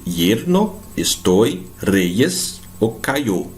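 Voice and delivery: "yerno, estoy, reyes ou cayó" slowly with I glides. Shown as a demonstration. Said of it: "Com som de I". ("yerno, estoy, reyes ou cayó" com som de I)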